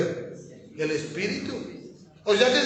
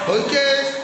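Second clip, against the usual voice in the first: calling out louder to the congregation; loud quiz question; 3 semitones higher, 5 dB louder than usual. Shown as a demonstration. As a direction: push the question out to the whole room. Pastor quizzing the congregation, louder.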